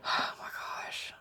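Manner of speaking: slow, breath-only gasp of wonder; awed whisper. Real, not acted. Admiring a crafter's handmade gift, awed whisper. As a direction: whisper it, overcome with delight.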